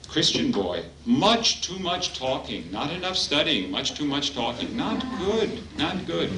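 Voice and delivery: teasing scold, lightly voiced; mock scolding. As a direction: wag a finger at the chatty boy, half joking. Swami scolding a boy.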